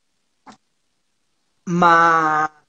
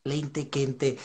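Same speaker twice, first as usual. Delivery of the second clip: put-on southern Brazilian accent; 3 semitones lower, much slower than usual. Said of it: "expressões do Sul que você aprendeu".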